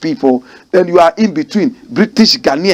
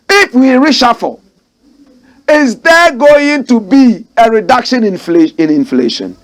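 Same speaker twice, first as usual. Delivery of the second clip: mocking quote; 4 semitones higher than usual. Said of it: "Listen to how the guy is speaking".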